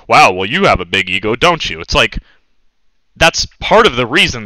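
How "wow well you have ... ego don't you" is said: lightly voiced sneering hater; a touch of smug sarcasm; mock critic. Streamer mimics haters calling him egotistical, mild sneer.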